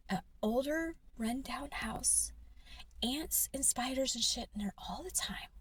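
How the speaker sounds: loud, slow, emphatic whisper; heated whisper. Real, not acted. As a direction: whisper it hard with rising anger. Ranting about the rundown house.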